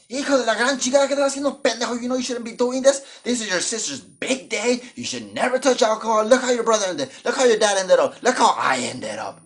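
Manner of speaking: high, loud scolding mom in Spanish and English; angry Mexican mom. Retold or imitated. Mom catching her son at the beer, high loud scolding. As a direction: scold him like a furious Mexican mother. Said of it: "you guys know Mexican moms".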